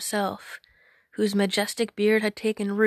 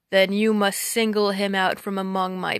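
giant voice; 3 dB louder than usual. Acted. Giant sets the test.

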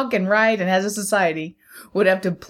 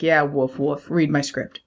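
low, unimpressed dog voice; a bored dog demanding attention; cartoon dog; 5 semitones lower, slower than usual. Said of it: "rolling his eyes like".

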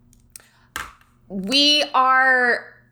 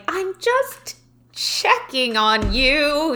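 innocent dad; 6 semitones higher, much slower than usual. Retold or imitated. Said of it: "And he's like".

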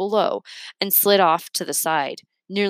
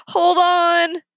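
urgent call; 11 semitones higher, 5 dB louder than usual. Acted. Remy warning from below.

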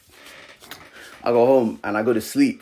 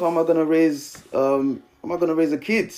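higher-pitched, mildly frantic questioning; retold panic; 4 semitones higher than usual. Young dad retelling his night-time panic about raising a kid, mildly distraught. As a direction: replay the worried rush of questions. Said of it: "I just burst into tears".

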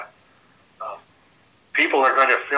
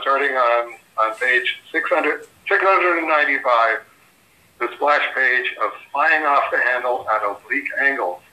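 ordinary talk

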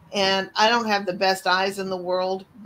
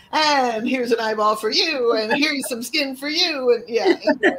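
laughing; 4 semitones higher, 4 dB louder than usual. Pretend. Laughing mock organ handout.

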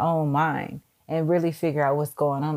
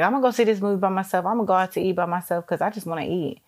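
breezy self-talk; faster than usual. Retold or imitated.

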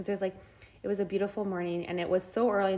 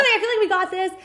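laughing; 11 semitones higher, 9 dB louder than usual. Retold or imitated. Mocking her own confidence.

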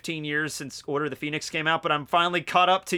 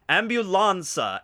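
higher, drawn-out mock-Spanish word; Spanish accent; 5 semitones higher, 3 dB louder, slower than usual. Comparing words across languages in a video, Spanish accent. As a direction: stretch it with a Spanish lilt. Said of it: "like, Spanish in there too".

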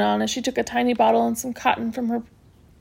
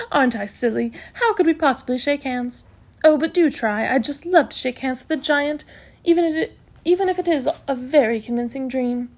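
brisk matron, amused; 3 semitones higher than usual. Acted. Matron wanting to shake a giant's hand, amused. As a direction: gush a little at your own silliness.

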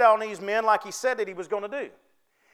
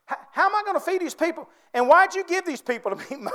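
Moses complaining; 4 semitones higher than usual. Acted. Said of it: "Moses started complaining to God".

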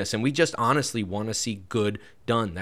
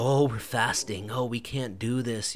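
softer, smug sighing piety; a self-pitying, superior tone; condescending; 4 dB quieter than usual. Acted. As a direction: play the put-upon faster, quietly superior. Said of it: "kind of a condescending voice".

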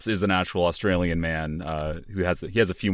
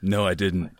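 put-on Australian accent. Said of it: "doing an Australian accent".

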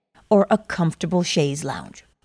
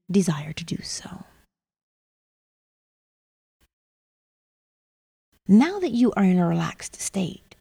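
right in your ear. Acted. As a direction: whisper it close and gentle. Settling listener into relaxation.

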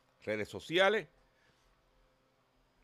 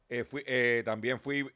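choking on a drink. Real, not acted. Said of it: "perdón, me ahogué".

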